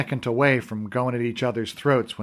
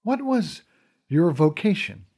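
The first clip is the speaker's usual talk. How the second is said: lightly voiced queen; 3 semitones higher than usual. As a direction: speak with gentle royal authority. Fawn the queen explains reality.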